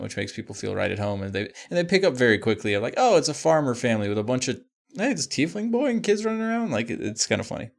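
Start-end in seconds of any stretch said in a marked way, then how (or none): 3.0-6.7 a hint of a Southern farmer; Southern accent. Farmer family greeting adventurers, light Southern accent. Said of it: "I immediately go into a thick Southern accent".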